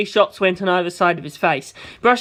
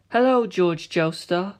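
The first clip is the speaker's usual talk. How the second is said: soft, slow composed greeting; calm greeting; 3 dB quieter, slower than usual. Acted. Giorno greeting George looking up, calm and soft. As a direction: greet him serenely. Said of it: "he said".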